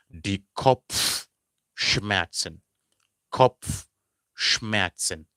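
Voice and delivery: Kopfschmerzen stretched very slowly, pf and tz spelled out; drawn-out German word. Shown as a demonstration. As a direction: model Kopfschmerzen syllable by syllable. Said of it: "So remember".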